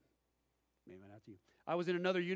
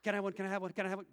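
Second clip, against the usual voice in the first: higher-pitched, rapid-fire mock pleading; eager begging; 4 semitones higher, 3 dB louder, much faster than usual. Jokingly asking for some ADD stuff, eager mock begging. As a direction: beg eagerly, tripping over the repeats.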